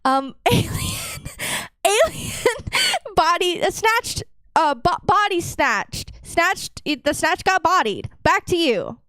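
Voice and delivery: high-pitched reporter from the scene; field reporter voice. Pretend. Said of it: "give us your best news, uh, anchor".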